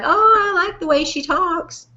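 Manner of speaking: lightly gushing, put-on compliment; mock admiring. Mimicking admiring listeners' reaction.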